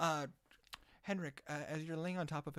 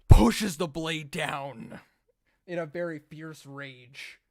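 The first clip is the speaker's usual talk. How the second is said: dramatic emphasis; 2 semitones higher, 20 dB louder, slower than usual. A narrator's reading. GM narrates a brutal stab.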